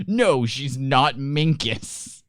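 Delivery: slow, stretched-out verdict; slowly announced mock verdict; drawn-out correction. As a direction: draw out each word like a mock ruling. Mock fact-check verdict, drawn out.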